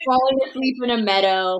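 bleating sheep voice. Pretend. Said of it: "I just did a sheep impression".

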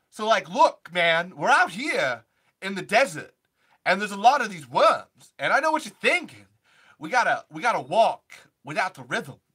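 Christopher Walken impression. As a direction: do a Walken-style deadpan with punched words. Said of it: "Christopher Walken".

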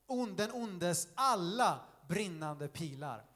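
very slow, weighty Bible reading; scripture reading. A narrator's reading. Preacher reads Ephesians to the congregation, slow formal reading. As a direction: read it out phrase by phrase, slowly.

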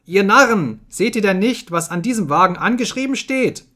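high, exasperated yelling; angry shout. A narrator's reading. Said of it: "schrie Benjamin".

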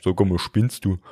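put-on lightly done Bavarian-accented stomach complaining. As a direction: tell him off in broad Bavarian. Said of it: "bei mir redet er auch bayerisch".

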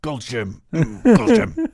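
high, loud, teasing purr; seductive mock purr. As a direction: purr it like a cheesy ad. Sultry parody of The Rock.

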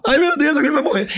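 hammed-up tearful panic; mock panicked wail. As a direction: fret like someone is about to die. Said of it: "O fleumático vai começar a chorar".

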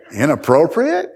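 questioning echo with a sharp final rise; incredulous echo. Acted. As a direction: query INAPPROPRIATE as if in disbelief. Questioning his friend's objection.

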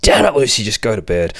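mother losing it, mildly acted; mock angry outburst. Mother losing her temper at Lucy, mock angry yell. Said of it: "the mama loses her shit".

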